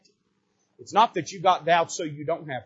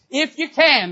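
"If you can" lifted high and loud, leaning on "can"; stress on doubt; 10 semitones higher, 9 dB louder, slower than usual. Shown as a demonstration. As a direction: hit "If you can" hard to show the doubt. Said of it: "that doubt's living there".

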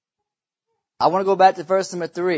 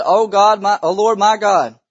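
raised, fervent cry to the Lord; crying out to God; 2 semitones higher, 5 dB louder than usual. Acted. Prophet to the Lord over the dead son, crying out. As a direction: call out in earnest prayer, louder. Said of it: "he cried to the Lord and said".

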